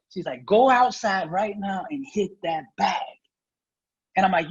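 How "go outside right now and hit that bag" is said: slow, firm commanding mother; stern order. Retold or imitated. Lightly voiced mother ordering him slowly. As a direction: mom orders him out to the bag. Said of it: "she yelled at me".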